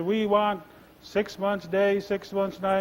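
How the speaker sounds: slow, high, drawn-out insistence; high-pitched, stretched-out sleepy argument; sleepy arguing. Acted. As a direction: drag the words out as a drowsy bear still arguing. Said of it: "Grizzly Bear got sleepy".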